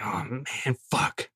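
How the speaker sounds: quiet oh-no; muttered dismay. Retold or imitated. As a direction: say it under your breath, caught out. Dismayed aside under breath.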